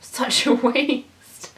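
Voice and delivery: a slow, drawn-out, loud lament; dramatic sigh. Acted. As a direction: stretch it out, mock-tragic. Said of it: "thought Rosa".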